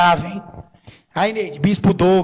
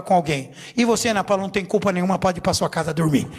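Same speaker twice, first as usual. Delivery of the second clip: a hint of a calm, firm bishop, slowing down; stern bishop verdict; 2 semitones lower than usual. Bishop sternly ending the meeting, lightly voiced, measured. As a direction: lay down the ruling without raising your voice. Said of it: "falou assim".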